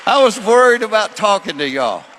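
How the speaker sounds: loud, high preaching; preaching at full force. Acted. Preacher loudly telling the crowd his nerves. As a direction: burst back up to the crowd.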